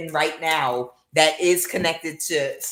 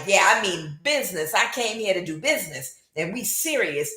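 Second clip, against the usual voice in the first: Ricky Ricardo voice; 4 semitones higher than usual. Retold or imitated. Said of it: "in his Ricky Ricardo voice".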